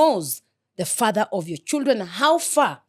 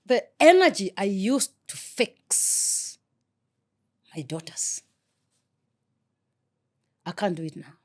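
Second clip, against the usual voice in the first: getting emotional. Real, not acted. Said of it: "Sorry, I'm getting emotional".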